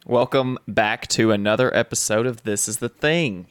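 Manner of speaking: sweet sing-song host intro; kindergarten teacher voice. Shown as a demonstration. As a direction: welcome them like a kindergarten class. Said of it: "I sound like a kindergarten teacher".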